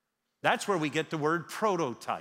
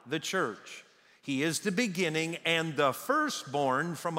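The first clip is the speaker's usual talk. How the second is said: congregational scripture reading. Real, not acted. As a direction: read the passage aloud with the church, unhurried. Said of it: "I want all of us to read this out loud".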